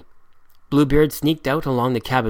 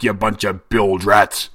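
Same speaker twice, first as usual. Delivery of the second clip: much louder, frightening captain's roar; Redbeard's bellow; 2 semitones lower, 4 dB louder, slower than usual. A narrator's reading. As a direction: bellow at lazy sailors. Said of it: "Redbeard's frightening voice bellowed".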